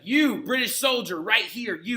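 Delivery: mock demanding kid, slow and pointed; a lightly voiced boy calling out a soldier; little boy accusing. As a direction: jab the soldier with each word. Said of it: "And he was like".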